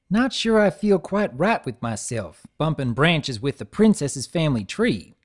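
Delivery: nervous folksy mumble; unsure country pony; lightly voiced country mare; Applejack voice.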